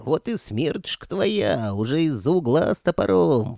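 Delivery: high, slow, menacing cackle-voice; creaky old ghost. Acted. Ghost wizard taunting the policeman, slow creaky menace. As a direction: gloat over the cop like a spiteful spirit.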